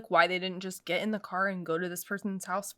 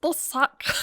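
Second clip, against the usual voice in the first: chipmunk voice; 6 semitones higher than usual. Shown as a demonstration. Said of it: "I could be a chipmunk".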